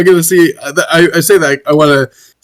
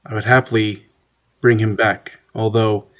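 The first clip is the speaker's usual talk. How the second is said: solemn healer character; 5 semitones lower than usual. Acted. Player speaks as character.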